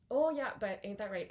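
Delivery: loud thick Bay Ridge accent; Brooklyn accent. Shown as a demonstration. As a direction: tough Brooklyn wise guy. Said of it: "super thick Bay Ridge accents".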